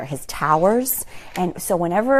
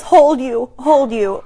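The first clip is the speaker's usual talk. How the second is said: put-on toddler voice; 5 semitones higher, 4 dB louder, slower than usual. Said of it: "comes over to me and says".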